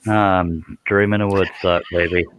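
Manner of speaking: slow, weary-sounding reply; unenthusiastic. Real, not acted. Answering a friend's how are you, slow and unenthusiastic. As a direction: drag it out with little enthusiasm. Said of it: "You sound so enthusiastic tonight".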